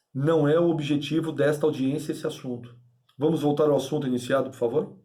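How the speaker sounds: firm but civil reprimand; mildly stern mediator taking control. Shown as a demonstration. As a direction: steer them back to the subject, firmly but politely. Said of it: "Isso é ser duro".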